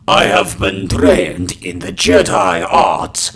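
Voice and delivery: loud raspy smoker's voice; rough throaty growl through the line; smoker's rasp. Acted. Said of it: "with Smoker's Cough".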